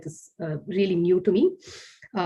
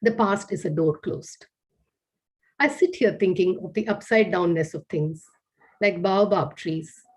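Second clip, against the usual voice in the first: poem reading. Acted. Reads her haibun aloud.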